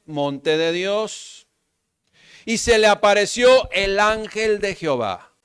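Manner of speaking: declaimed scripture, words drawn out; lectura bíblica proclamada. Acted. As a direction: proclaim the verse, phrase by phrase. (lectura solemne proclamada en voz alta)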